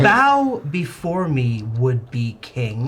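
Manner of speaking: loud, slow command to bow; commanding roar. Acted. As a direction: boom it down at him. Dragon commands the king to bow.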